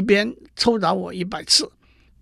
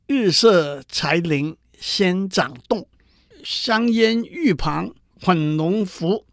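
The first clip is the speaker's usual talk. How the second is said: slow, measured recital of a Tang poem; classical poem recital; slower than usual. Acted. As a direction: intone each line slowly, savouring every word. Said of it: "按照王维写的诗". (缓慢庄重地吟诵唐诗)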